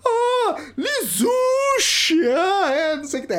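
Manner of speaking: very high, loud, drawn-out exclamation; hammed-up high cry of recognition; taxi driver's realisation. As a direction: mimic a local suddenly getting it, Lizushi stretched out. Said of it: "o taxista vira pra, pra mim e fala".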